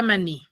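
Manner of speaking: "maní" stressed on its final NÍ; stress on last syllable. Shown as a demonstration. Teacher repeats the example for pupils, "maní" stressed on NÍ. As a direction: say "maní" with the force on NÍ. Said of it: "En la sílaba ni".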